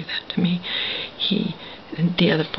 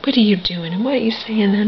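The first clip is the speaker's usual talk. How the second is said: louder, higher mock outrage; imitated anger, raised in pitch and volume; retold furious man; 3 semitones higher, 6 dB louder, faster than usual. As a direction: fire back questions as the angry man. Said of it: "He got mad at me, furious".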